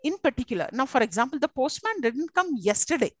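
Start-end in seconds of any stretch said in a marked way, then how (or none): 1.4-3.1 "yesterday" made to stand out at the end; stress on YESTERDAY. Shown as a demonstration. Teacher giving an example sentence, stress on YESTERDAY. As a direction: lean on "yesterday", then let it fall. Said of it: "that stands out".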